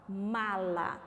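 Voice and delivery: "Mala" said once, fairly deliberate and low; measured. Shown as a demonstration. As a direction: present "Mala" as one word, carefully. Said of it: "Agora, olha essa palavra".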